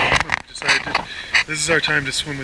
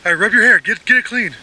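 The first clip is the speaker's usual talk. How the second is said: in ice cold water; 5 semitones higher, 9 dB louder, faster than usual. Real, not acted. In the cold lake, shouting.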